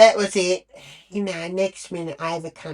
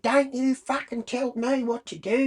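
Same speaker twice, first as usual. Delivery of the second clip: angry retort; 9 semitones higher than usual. Retold or imitated. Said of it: "don't raise your voice".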